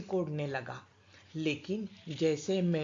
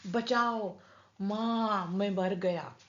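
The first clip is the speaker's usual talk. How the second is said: panicked cry; 3 semitones higher, slower than usual. Acted. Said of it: "मैं चिल्लाया".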